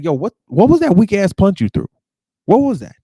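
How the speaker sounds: loud laughing mockery; mocking loud taunt. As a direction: jeer at the weak punch. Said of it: "then he asks".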